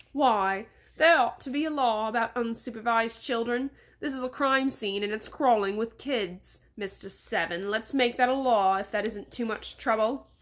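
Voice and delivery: lightly played English-accented indignation; indignant English boss. Boss demands a law on children, indignant English accent. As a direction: order your servant about, mildly indignant, English accent.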